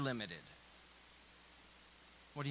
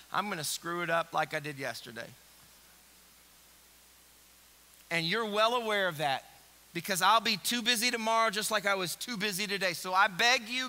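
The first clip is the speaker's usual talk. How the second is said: earnest pleading prayer; sincere begging prayer, building to firm; sample prayer; 3 semitones lower than usual. Shown as a demonstration. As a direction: pray it like you mean it. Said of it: "should actually sound something like this".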